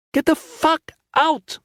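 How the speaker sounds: furious shout. A narrator's reading. Lin screaming at Valin to leave, furious yell. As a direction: roar the order. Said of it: "Lin shouted".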